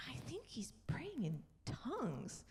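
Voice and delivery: hushed retold aside; soft, breath-only confiding; secretive whisper. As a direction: whisper it so the one praying won't hear. Retells secret exchange during the prayer.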